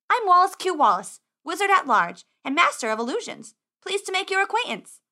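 put-on high-pitched, self-important boy wizard; grand introduction. Muddy wizard introducing himself to squire, grand. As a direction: announce yourself with a flourish. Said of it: "giving such a grand introduction".

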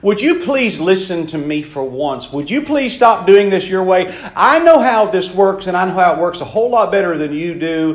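earnest pleading plea. Retold or imitated. God begging his children, an earnest plea. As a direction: beg them to finally listen. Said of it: "God is begging his people".

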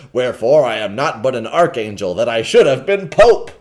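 a touch of self-pity; a hint of a pitiful old monk; pathetic lament. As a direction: whimper the lost dream of being pope. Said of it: "a pathetic".

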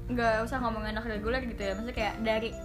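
Jaksel-style speech, English mixed in; jakarta slang. Real, not acted. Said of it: "Kok lo kayak anak Jaksel banget sih". (logat anak Jaksel)

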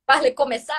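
questioning imitation of Marseille French; copied Marseille accent. Learner repeating friend's demo, Marseille accent.

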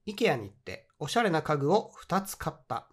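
「IKEAに行っておしゃれな家具を二つ買った。」を一語ずつゆっくり読み直す; slow reread. Shown as a demonstration. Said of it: "もう一回いきます". (二回目は少しゆっくり読み上げる)

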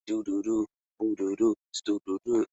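light spoken "doo doo doo" beeps; imitated beeps. Retelling how the call cut off, imitated beeps. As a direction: mimic a repeating tone in short sung-out syllables. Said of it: "This shit went".

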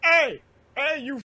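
put-on high, loud jeering yell at the kid; mock troll yell. Troll jeering at a kid streamer in chat, loud mock yell. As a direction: bark it out like a rude troll.

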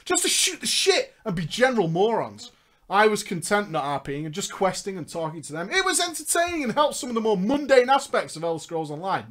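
projected read-aloud storytelling; narrating a gaming memoir; story narration. Acted. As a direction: read the tale out to listeners. Reads story aloud amid own chat.

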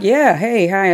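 lightly acted cheery reply; easygoing greeting. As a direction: greet them back, playing along. Acts out own easygoing reply.

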